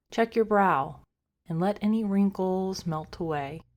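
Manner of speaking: calm, unhurried meditation guide with long pauses; guided meditation. Acted. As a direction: gently talk listeners into rest, a little softly. Leads a meditation.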